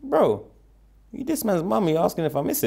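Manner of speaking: high disbelieving "Bro", then teasing; incredulous. Real, not acted. Answering the interviewer, real teasing disbelief.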